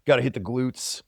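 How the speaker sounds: fast, rattled-off gym bro voice. Retold or imitated. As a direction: rush it like a hyped lifter. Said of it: "It's like".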